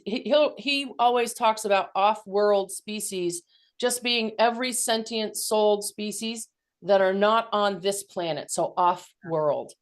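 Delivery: muffled speech; talking through a hand over mouth. Real, not acted. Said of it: "it's also muffled".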